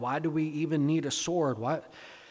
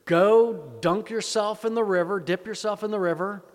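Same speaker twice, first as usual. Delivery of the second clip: prophet's command; 4 semitones higher, 5 dB louder than usual. Acted. Acted prophet giving a command.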